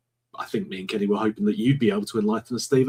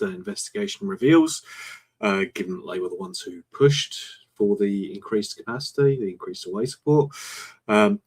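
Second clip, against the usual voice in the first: sarcastic. Real, not acted. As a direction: say it deadpan, meaning the opposite. Mocking the league's fair investigation.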